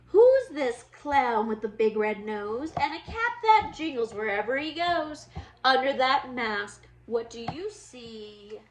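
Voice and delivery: lively storybook read-aloud for little ones; reading to children. Acted. Teacher reading a Halloween book to her class, lively storybook voice. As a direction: read it like story time for kids.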